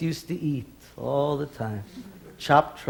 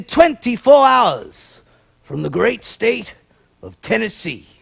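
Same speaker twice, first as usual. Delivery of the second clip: mock official proclamation; 4 semitones higher, 3 dB louder than usual. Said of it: "He said".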